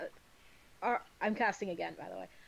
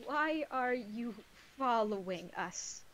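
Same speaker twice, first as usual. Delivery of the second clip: slow, stuttering nervous question; slower than usual. Acted. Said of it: "Elwyn is going to point at the bird and say".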